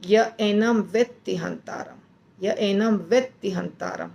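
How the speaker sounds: य एनम व्यक्ति हंतारम recited evenly as a model; recitation demo. Shown as a demonstration. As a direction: chant the line as it should be said. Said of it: "ऐसे बोलना चाहिए वास्तव में".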